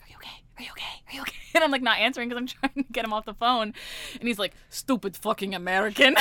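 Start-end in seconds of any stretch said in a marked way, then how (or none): 0.0-1.4 imitated whisper to a coworker; hushed, voiceless repeated question; whispered check-in. Coworker checks on crying caller-taker. 4.7-6.2 mildly raised mock insult; louder, lightly acted outburst; retold angry caller. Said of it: "he's yelling at me".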